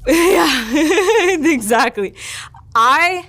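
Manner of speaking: high, loud laughter breaking through the words; real laughing. Real, not acted. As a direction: laugh along while agreeing with the joke. Laughs at co-host's Wi-Fi joke.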